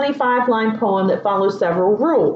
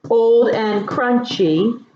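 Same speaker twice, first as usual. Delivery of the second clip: put-on old and crunchy, drawn out slowly; slow savoring read; slower than usual. Shown as a demonstration. Mother rereading the poem to her kids, slowly. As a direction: linger on each word of old and crunchy. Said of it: "gym socks".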